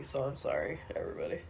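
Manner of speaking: whispered sheepish apology. Real, not acted. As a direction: breathe the apology, nearly voiceless. Sheepish apology for sounding sick.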